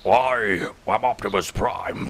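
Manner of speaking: lightly voiced noble robot leader; a hint of a commander introducing himself; mild Optimus Prime impression. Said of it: "here it is".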